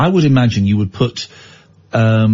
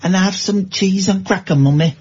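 put-on high, whiny northern child pleading with mum; mock Victorian mill kid; 4 semitones higher than usual. Son begging his mam for coal to play with, whiny child voice.

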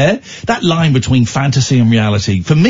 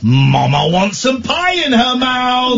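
put-on child's voice; 9 semitones higher, slower than usual. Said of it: "my seven-year-old said, and I quote".

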